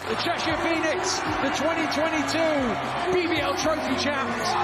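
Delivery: champions announcement. Real, not acted. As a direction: proclaim the winners like a trophy ceremony.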